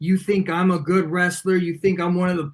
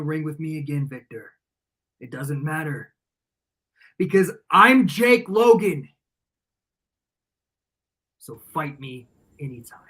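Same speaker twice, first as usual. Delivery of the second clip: cold threat; 4 semitones lower than usual. Real, not acted. Cold trash talk to rival.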